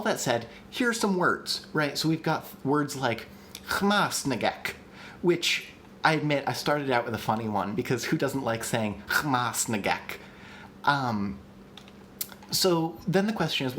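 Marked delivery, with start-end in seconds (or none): 3.7-4.7 chmasnagek, first syllable stressed and drawn out slowly. Shown as a demonstration. Host introducing a funny made-up word, chmasnagek, stressed on first syllable. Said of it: "putting the stress on the first syllable". 9.1-10.2 chmasnagek, slow, first syllable stressed. Shown as a demonstration. Host relishing a funny word, chmasnagek stressed on first syllable. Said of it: "which is what I've been saying".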